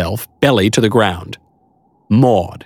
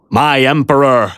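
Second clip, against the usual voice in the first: awed knight; 4 semitones higher than usual. Acted. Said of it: "said Sir Littleman".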